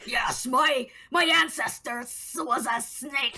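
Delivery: lightly hissed villain voice, drawn-out S's; hissing snake villain voice. Acted. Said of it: "my Siren Dogan voice now has to use more S's".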